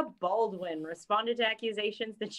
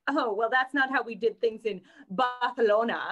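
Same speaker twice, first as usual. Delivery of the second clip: mock Castilian accent; 4 dB louder than usual. Co-host mocking a girl back from two months abroad, affected Castilian accent. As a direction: put on a lisped Spanish "Barcelona". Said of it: "will not stop being like".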